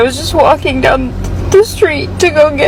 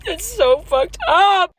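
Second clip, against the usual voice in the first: choked up and quiet, slow; breaking down in tears, slowly; crying; 6 dB quieter, slower than usual. Real, not acted. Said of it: "it makes me cry".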